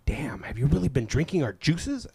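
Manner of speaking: hushed, breathless staff aside; mock whisper. Staff whispering in disbelief at regular customer. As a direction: whisper it like a shocked cashier. Jamba Juice staff quoted.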